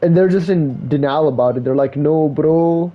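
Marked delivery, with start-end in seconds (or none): 1.9-2.9 mimicked Indian accent. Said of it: "a lot of Indians".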